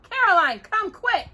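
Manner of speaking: high, loud urgent call. A narrator's reading. Pa calls Ma out of the house, high and urgent. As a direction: call her out in alarm. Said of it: "Then he called".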